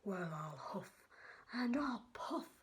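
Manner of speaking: big bad wolf roaring his threat; wolf shout.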